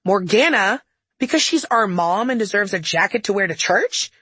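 exasperated half-shouted retort; mild yell. Acted. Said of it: "I yelled".

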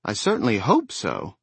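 mock grand old lady; haughty dowager, played for laughs; comical dowager. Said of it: "in a comical dowager's voice".

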